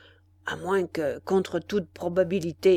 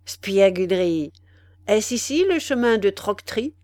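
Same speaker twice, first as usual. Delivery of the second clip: menacing demand; 5 dB louder than usual. Acted. The dwarf threatens the concierge.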